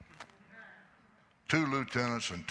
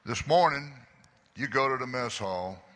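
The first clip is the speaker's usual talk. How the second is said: kind voice; 3 semitones higher, 3 dB louder than usual. Retold or imitated. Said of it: "in a kind voice".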